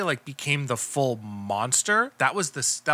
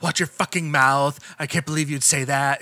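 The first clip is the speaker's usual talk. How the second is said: bad Trump. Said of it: "bad Trump".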